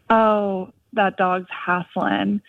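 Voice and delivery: put-on slow Southern accent, drawn out on hassling; imitating a college friend's Southern accent, slowly. Friend imitated remarking on a panting dog, Southern accent. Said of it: "in her Southern accent".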